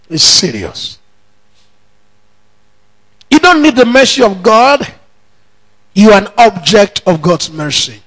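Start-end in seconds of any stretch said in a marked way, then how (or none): none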